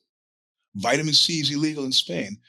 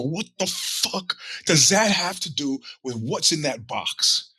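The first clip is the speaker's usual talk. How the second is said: angry retort; 4 semitones higher, slower than usual. Retold or imitated. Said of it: "I go".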